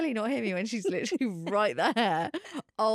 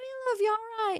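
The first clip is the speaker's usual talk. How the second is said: shouting in a higher pitch; 12 semitones higher than usual. Retelling an auntie calling out to an actress at the shops: imitating someone shouting. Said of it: "Literally shouting Hayley at this woman".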